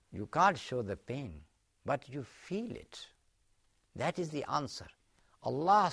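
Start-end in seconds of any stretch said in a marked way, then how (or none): 3.9-4.9 a quiet, unvoiced whisper; hushed. Real, not acted. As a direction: breathe the answer softly. Punchline of the parable.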